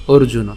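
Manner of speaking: orjuno with a clear opening vowel; orjuno pronounced clearly. Shown as a demonstration. Teacher shows how it is pronounced, orjuno said carefully. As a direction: model "orjuno" for learners. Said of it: "তাহলে উচ্চারণটা হবে".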